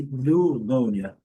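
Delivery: slow, loud "pneumonia" as nu-MÔU-nia; segunda variante. Shown as a demonstration. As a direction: say "pneumonia" with a plain "nu" start, drawn out. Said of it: "uma pequena diferença". ("pneumonia" devagar, começando com "nu")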